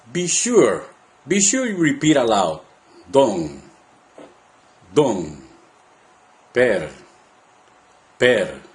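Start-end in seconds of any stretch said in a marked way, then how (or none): 3.1-8.6 low, separate syllables with long pauses; part by part. Shown as a demonstration. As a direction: model each syllable alone for repeating. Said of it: "part by part, starting from the end".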